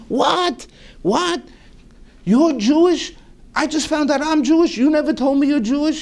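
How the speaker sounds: high, fast disbelieving outburst; husband floored by his wife's secret; astonished. Retold or imitated. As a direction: sputter in utter disbelief.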